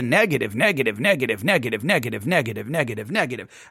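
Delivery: a sinking, weary drone of negatives; droning repetition. Retold or imitated. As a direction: let the word sink and die out as it repeats. Complaints piling up, repeated.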